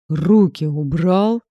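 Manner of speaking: slow, loud growled command; growled order. A narrator's reading. She growls at Nazar to let go, loud and slow. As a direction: snarl it, pulling away. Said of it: "прорычала я".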